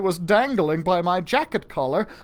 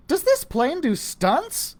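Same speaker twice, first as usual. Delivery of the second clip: Susie voiced; 10 semitones higher, slower than usual. A narrator's reading. Susie asks, voiced high.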